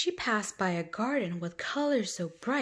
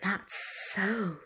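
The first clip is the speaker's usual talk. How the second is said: snake hissing. Acted. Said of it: "the snake hissed".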